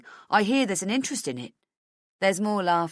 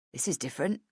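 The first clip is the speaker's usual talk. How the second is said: plain reading voice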